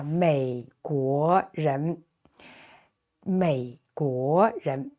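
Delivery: 美国人 said slowly, each syllable clear; slow model Mandarin. Shown as a demonstration. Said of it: "teacher models the word".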